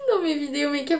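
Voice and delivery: talking with lips pushed out like a fish; words through a fish-face pout. Real, not acted. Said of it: "genre je suis un poisson".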